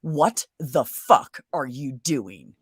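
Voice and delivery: slow, deliberate and stern; slow menacing confrontation. Retold or imitated. The sister confronting the girlfriend, slow and menacing. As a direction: draw each word out like a threat. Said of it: "my sister said to her".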